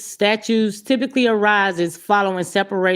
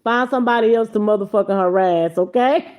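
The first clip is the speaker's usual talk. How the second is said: mock telling off. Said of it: "'Cause I'ma play that shit".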